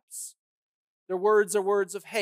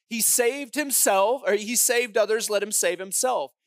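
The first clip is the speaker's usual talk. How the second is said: retold crowd yell; 4 dB louder than usual. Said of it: "They yell those words".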